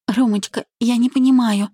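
high, helpless babble; babbling. A narrator's reading. Bride to her furious groom, high helpless babbling. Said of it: "пролепетала она".

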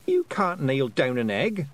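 slow, sharp retort; Tiffany snapping at Rob Anybody's excuse; snapped. Acted. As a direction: snap back, unimpressed. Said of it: "snapped Tiffany".

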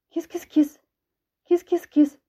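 high coaxing call for a cat. Acted. Ksyusha searches for her cat, calling high.

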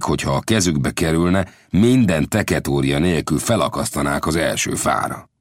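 Lang's voice. Acted. Lang speaks at length.

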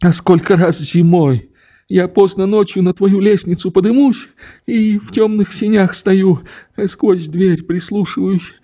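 put-on tender, confiding old man's voice; longing old father. A narrator's reading. Father telling his daughter how he watched her window, tenderly.

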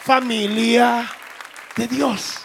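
slow emphatic recital. Shown as a demonstration. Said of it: "Dígale al vecino".

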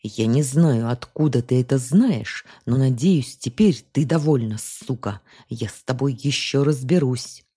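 plain reading voice

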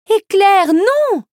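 high, loud call to stop; alarmed cry. A narrator's reading. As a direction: call out in alarm, pitch soaring. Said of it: "cria Ariel alarmée".

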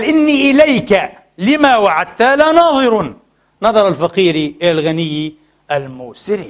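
deliberate classical Arabic verse reading; poetry recitation. Acted. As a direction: declaim the first half, then settle down for the second. Recites the verse a second time.

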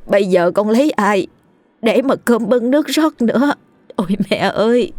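a theatrical show of grief; mock sobbing lament. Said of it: "khóc lóc vật vã". (giả vờ khóc lóc vật vã)

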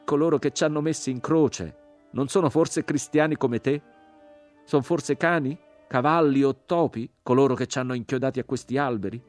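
loud, high, indignant tirade. A narrator's reading. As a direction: accuse bitterly at full voice. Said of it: "la voce riprese più forte".

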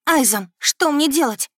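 high, loud plea for help; frightened. A narrator's reading. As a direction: ask slowly in rising panic. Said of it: "едва не закричала от страха". (испуганно, с отчаянием)

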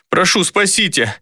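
high, slow begging; desperate pleading. A narrator's reading. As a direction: crawl and beg. Captive crawls begging.

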